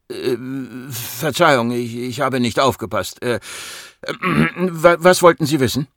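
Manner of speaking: stammering, hesitant apology; flustered. Acted. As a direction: clear your throat and stumble into the question. Patient caught not listening, stammers. (verlegen stammelnd)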